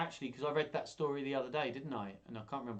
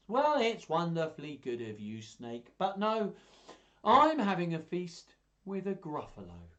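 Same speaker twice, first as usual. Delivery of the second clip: higher, louder polite mouse; little mouse; 6 semitones higher, 7 dB louder than usual. Acted. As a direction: refuse the snake brightly. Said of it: "do all the voices".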